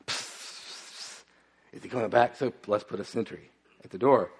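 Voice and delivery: hushed conspiratorial whisper; whispering kids. Retold or imitated. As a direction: kids plotting quietly behind dad's back. Kids whispering about dad.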